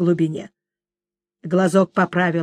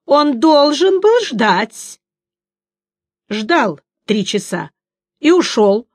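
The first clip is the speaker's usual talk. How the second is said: lightly voiced siren, slow and high; a hint of a sing-song sea maiden; singsong siren; 4 semitones higher, 4 dB louder, slower than usual. A narrator's reading.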